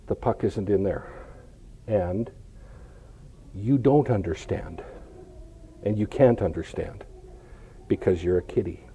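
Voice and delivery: low, hushed, resigned explanation; softly spoken, with pauses between phrases; gentle letdown. Acted. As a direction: break it softly to a pet, low and quiet. Gently telling the cat it can't understand.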